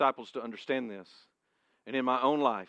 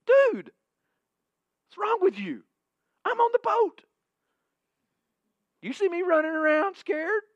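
much higher, loud, mock-incredulous Jesus; casual Jesus voice; 9 dB louder than usual. Pastor imagining Jesus scolding him casually, high mock-incredulous. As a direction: chide him like a buddy. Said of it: "what I expect Jesus to say to me".

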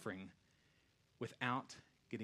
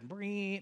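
recliner buzz; 9 semitones higher, 6 dB louder than usual. Retold or imitated. Recliner motor noise.

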